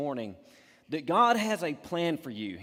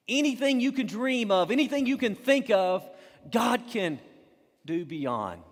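excited preaching; 6 semitones higher, 5 dB louder than usual. Real, not acted. Preacher's climax about dreams.

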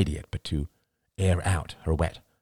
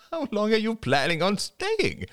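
incredulous; 13 semitones higher than usual. Acted. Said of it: "Crystal laughed incredulously".

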